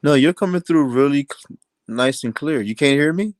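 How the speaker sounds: pitch-warped demonic audio; glitched audio like the devil; distorted devil voice. Real, not acted. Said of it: "You're talking like the devil or something".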